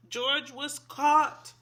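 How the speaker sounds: slow, weighty storybook line; dramatic slow reveal. A narrator's reading. Reading to kids, dramatic slow reveal. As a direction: draw out the words for suspense.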